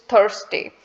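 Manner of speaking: Thursday with an American R, slowly. Shown as a demonstration. Teacher shows American English Thursday, R sounded. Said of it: "according to American English".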